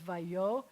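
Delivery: vayo said slowly, accent on yo; stressed vayo. Shown as a demonstration. Teacher sounds out vayo slowly for the class. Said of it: "and the accent is here".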